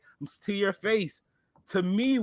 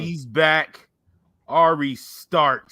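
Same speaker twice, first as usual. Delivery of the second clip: announcer intro; 4 dB louder, much slower than usual. Acted. Host introduces guest.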